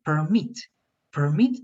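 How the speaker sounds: perMIT, with the weight on MIT; stress on second syllable. Shown as a demonstration. Teacher confirming student's answer, "permit" stressed on MIT. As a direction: verb "permit" stressed at the end. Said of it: "in the second syllable".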